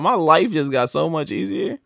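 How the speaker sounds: a touch of mock delight, pitch lifted; mildly ecstatic. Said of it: "He was ecstatic".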